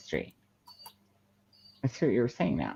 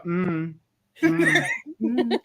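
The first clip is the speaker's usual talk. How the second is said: mock humming; 8 semitones higher, much slower than usual. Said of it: "You forgot to go".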